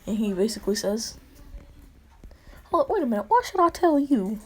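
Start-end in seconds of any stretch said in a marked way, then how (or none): 2.7-4.4 higher and louder, protesting; indignant outburst. Acted. Boy refusing to explain his quirk, raised and indignant. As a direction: snap back, suspicious and raised. Hero suddenly refusing to share.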